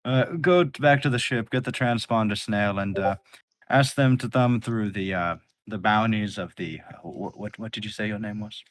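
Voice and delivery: flustered commander giving errands; fussy orders. Acted. Thatch gives orders.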